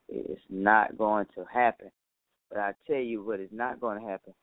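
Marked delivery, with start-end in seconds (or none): 0.1-1.9 every word spaced out, deliberate; slow and emphatic. Real, not acted. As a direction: lay it down slowly, word by word. Slow emphatic repeat of the line.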